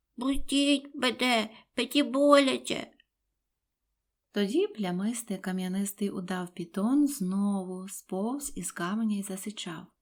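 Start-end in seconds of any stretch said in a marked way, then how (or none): 0.2-2.9 high, nasal voice through the nose. Narrator reads the elephant's child's plea to the crocodile: talking through the nose. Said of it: "воно промовило в ніс, отак".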